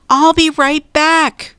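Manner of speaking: high-pitched hurried call. A narrator's reading. Jack calls to Annie as he turns back, high call. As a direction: call it up to a friend. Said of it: "Jack called".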